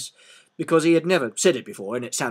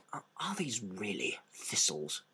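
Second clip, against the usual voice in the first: much softer, slow hushed question; whispered; 6 semitones lower, 15 dB quieter, much slower than usual. Acted. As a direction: ask under your breath, worried. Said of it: "he whispered".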